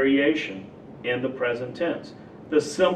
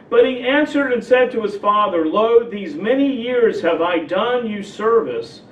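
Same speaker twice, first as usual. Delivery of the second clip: brisk, slightly raised King James reading; scripture reading; 2 semitones higher than usual. Acted. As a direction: read the old verse aloud to the class. Reads King James scripture aloud.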